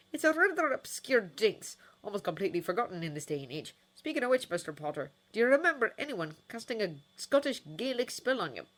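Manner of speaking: put-on high, loud elderly wizard lecturing; a fussy old healer explaining; lightly voiced old healer. Elderly healer questioning Harry about the curse, fussy.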